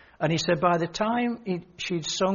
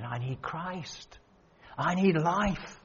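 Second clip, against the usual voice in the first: slow, much softer, hushed; quiet confession; 5 dB quieter, much slower than usual. Retold or imitated. Lady tells the preacher what she needs, slow and hushed. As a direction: let each short line sink slowly. Woman's tearful confession retold.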